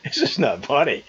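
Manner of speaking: trying not to laugh; laughing through the words. Real, not acted. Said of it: "I shouldn't be laughing".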